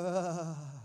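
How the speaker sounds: long, falling exhaled "ahh"; demonstrated sigh. Shown as a demonstration. Preacher showing the congregation what to go to a neighbor, long falling sigh. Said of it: "Just look at your neighbor and go".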